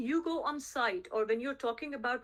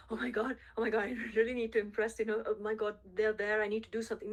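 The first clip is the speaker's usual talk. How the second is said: panicked salesperson; faster than usual. Retold or imitated. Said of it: "You're not like".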